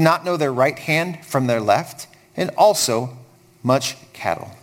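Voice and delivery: measured, even Bible reading; solemn public reading of scripture. Acted. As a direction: read the passage aloud to a congregation. Reads scripture aloud.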